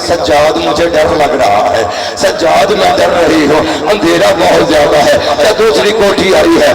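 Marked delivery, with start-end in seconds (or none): 0.1-5.2 put-on frightened tearful child. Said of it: "Sakina ने रो के कहा".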